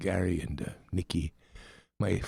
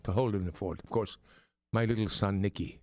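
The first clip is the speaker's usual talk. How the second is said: a light Irish accent put on by an American; playful Irish lilt all through. Host greets listeners back in a light Irish accent. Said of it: "if you're hearing my accent".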